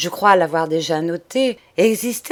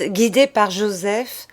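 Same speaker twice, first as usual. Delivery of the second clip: ordinary delivery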